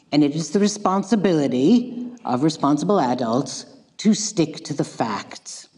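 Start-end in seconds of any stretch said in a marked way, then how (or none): 4.0-5.7 whispered aside. Acted. Mock-solemn aside.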